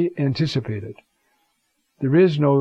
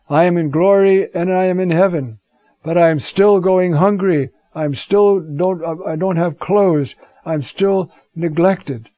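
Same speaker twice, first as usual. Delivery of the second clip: impassioned plea; 5 semitones higher, 6 dB louder than usual. Acted. Christ's plea quoted by Augustine.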